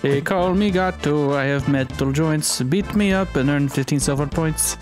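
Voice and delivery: slow, deliberate robot reading. Acted. Reading robot character's lines.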